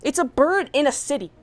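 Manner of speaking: building to a loud exasperated rant; heated rant about pigeon haters; rising rant. Real, not acted. Ranting defence of pigeon feeders.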